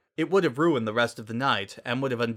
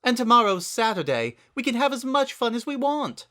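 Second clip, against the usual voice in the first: high, theatrical and refined, louder; Rarity voice; 12 semitones higher, 5 dB louder than usual. A narrator's reading. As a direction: gush it out grandly. Rarity character voice.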